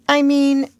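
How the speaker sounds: smooth it over sweetly; nice. A narrator's reading. Wendy as hostess to Peter, nicely. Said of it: "Wendy said nicely".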